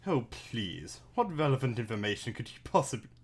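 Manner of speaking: lightly posh, haughty dismissal. Acted. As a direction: look down your nose, politely. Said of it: "I think I just did sort of fancy, like, posh voice".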